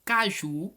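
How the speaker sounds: caju said loud with a strong final ju; emphatic caju, weight at the end; stress on last syllable. Shown as a demonstration. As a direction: dictate caju leaning on the ju. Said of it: "tem que ser a última sílaba mais forte".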